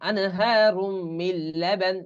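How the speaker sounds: slow recitation, মিন লাবান as mil-laban; আনহারুম মিন লাবান with a doubled l, no n; silent nun. Shown as a demonstration. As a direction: hold আনহারুম long, then merge into লাবান. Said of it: "এই নুন উচ্চারণ হবে না".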